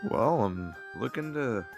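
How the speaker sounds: wrong character voice. Acted. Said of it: "That was Paladin's voice".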